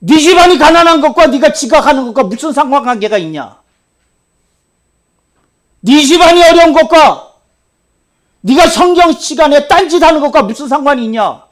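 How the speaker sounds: loud, high accusing questions; stern pastor scolding; scolding rebuke. Retold or imitated. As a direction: scold the boy hard. Retold scolding of student.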